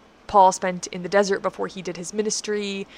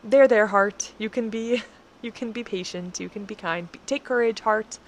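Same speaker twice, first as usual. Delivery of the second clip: gently coaxing your own heart; tender there-there to oneself; soothing self-talk; 2 semitones higher than usual. Retold or imitated. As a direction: comfort a frightened heart. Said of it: "the author is telling himself".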